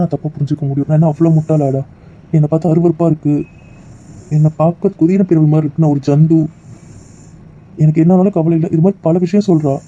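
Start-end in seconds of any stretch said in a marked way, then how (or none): 0.9-8.7 louder, wounded and bitter; hurt outburst. Acted. To his friend about his wife, a hurt louder outburst. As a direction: throw her cruel words back, stung. Hurt husband repeats wife's insults.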